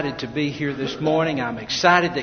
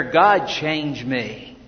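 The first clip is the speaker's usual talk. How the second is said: slow and a bit softer, each word weighed; slow heartfelt prayer; 5 semitones lower, 5 dB quieter, much slower than usual. Shown as a demonstration. Pastor modelling the prayer for the congregation, slow and sincere. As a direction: pray it slowly, as if you mean it. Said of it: "Do you ever pray that prayer".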